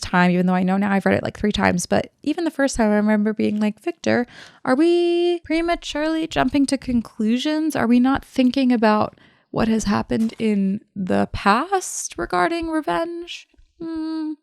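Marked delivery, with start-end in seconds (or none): 3.8-14.3 mock-patronising questioning. Mock questioning of Victor, acted.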